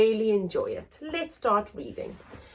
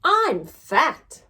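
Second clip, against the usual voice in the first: raised, declaring voice; loud complaint; 6 semitones higher, 6 dB louder than usual. Acted. Mother loudly complaining to her family.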